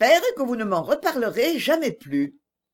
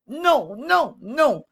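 high, pleading cries of no; Agnès protests in alarm, voice pitched high; cry of great distress; 5 semitones higher, much slower than usual. A narrator's reading. Agnès cries out to Stephenson in distress, high pleading no. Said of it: "s'écria Agnès en grand émoi".

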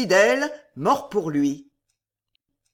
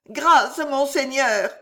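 moaning; 5 semitones higher, 3 dB louder, slower than usual. A narrator's reading. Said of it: "gémit l'intendant".

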